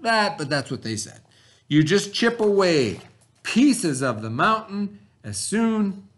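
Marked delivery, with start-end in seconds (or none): 1.7-6.1 a touch of a hyped-up gold-rush pitch; mock excited promise. Teacher imitating the gold-rush rumour for the class, mock excited. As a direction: sell the dream, lightly. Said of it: "they used to say".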